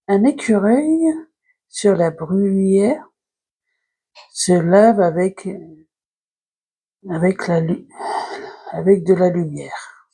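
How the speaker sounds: slow, halting poem reading with pauses between phrases. Acted. Vlogger reading a short poem to viewers, measured recitation. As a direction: read the poem aloud, phrase by phrase.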